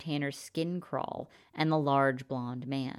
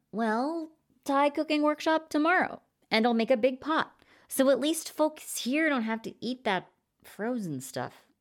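a higher, lightly voiced upbeat character; cheerful Sunshine; 11 semitones higher than usual. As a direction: offer the workshop brightly.

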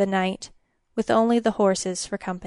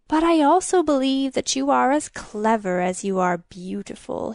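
creaky, flattering king voice; scraping king; 3 semitones higher than usual. A narrator's reading. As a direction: coax her with scraping flattery. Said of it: "his voice like the back of a bow being dragged over an untuned".

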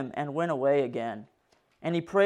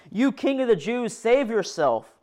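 higher scornful taunt; mocking soldier; 5 semitones higher than usual. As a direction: jeer at him like a soldier. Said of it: "The soldiers also jumped in on the mockery".

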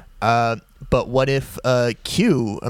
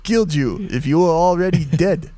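Sean Connery impression; 4 semitones higher than usual. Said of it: "the other voice I do".

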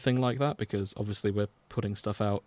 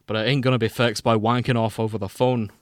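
put-on Scottish accent; 4 dB louder than usual. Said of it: "Scottish accents".

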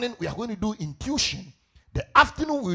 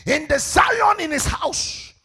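emphatic raised pulpit voice; fervent preaching; 7 semitones higher, 7 dB louder than usual. Real, not acted. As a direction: press the point on the congregation. Resumes preaching at full force.

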